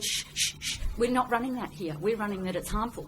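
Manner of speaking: imitating a dismissive hush, then a quick brush-off; mock shushing. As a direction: brush him off like a scolding minder. Mocking opponents shushing Brady.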